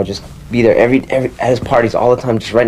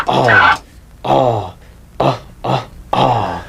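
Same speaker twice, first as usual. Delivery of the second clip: vocal scratch sound; much slower than usual. Shown as a demonstration. Pressing the record, imitating his scratch. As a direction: hum the scratch pattern. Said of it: "I would go".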